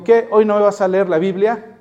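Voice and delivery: mock-innocent sarcastic jab with a rising end. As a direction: tease him about the Bible reading. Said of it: "Él lo hacía con todo sarcasmo". (compañero burlándose del jefe, pregunta sarcástica)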